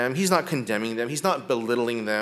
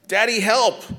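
put-on scared toddler cry; 8 semitones higher, 6 dB louder, slower than usual. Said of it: "he starts to cry".

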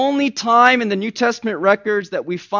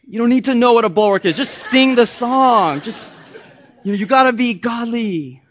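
mock-stern dad; 5 semitones higher, 5 dB louder than usual. Dad scolding kids mock-sternly.

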